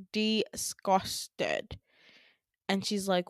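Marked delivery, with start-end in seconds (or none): 0.1-1.8 DISGUSTED stretched out syllable by syllable; drawn-out emphasis. Retold or imitated. Narrator stressing the daughter's reaction, DISGUSTED drawn out. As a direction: draw out DISGUSTED for dramatic effect.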